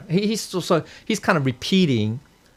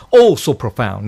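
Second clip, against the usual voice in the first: mock awe; 7 dB louder than usual. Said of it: "No, no, no, it's not like that".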